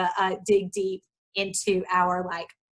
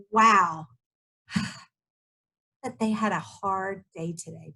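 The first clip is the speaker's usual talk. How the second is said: calming down. Retold or imitated. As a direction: bring the heat down gently after a sigh. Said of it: "I'm bringing it back down".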